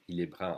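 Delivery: brun ending on a nasal vowel, no N. Shown as a demonstration. Teacher repeating the masculine for learners, nasal un. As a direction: say brun with U N as one nasal sound. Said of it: "you don't hear an N alone".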